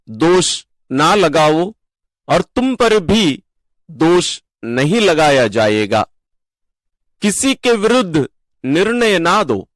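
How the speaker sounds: solemn, deliberate Gospel reading with pauses; scripture reading. Real, not acted. Leader reading Luke's Gospel to the faithful, deliberate scripture reading. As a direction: proclaim each phrase separately, falling at verse ends. Reads the Gospel passage aloud.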